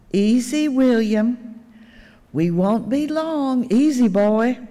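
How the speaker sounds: a mild hint of a steady, soothing grandpa; lightly voiced calm grandfather; controlled voice. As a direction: keep it even, coaxing the boy along. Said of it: "saying in a controlled voice".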